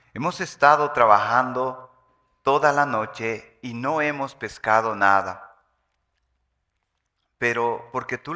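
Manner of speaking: projected, measured Bible reading in clear phrases; scripture reading. Acted. Preacher reads of Jesus and the fishermen, projected scripture reading. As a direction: proclaim the passage to a room, phrase by phrase.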